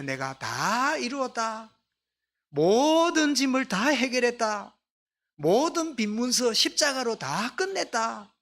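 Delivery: triumphant proclamation. Acted. Jesus on the cross declares all is finished, triumphant proclamation. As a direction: proclaim it slowly, drawing out the key words.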